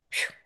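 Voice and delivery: quick blown puff of air; whooshing phew. Shown as a demonstration. Speaker showing inner resistance going down, whooshed phew. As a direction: blow out a short wordless phew. Imitates resistance dropping away.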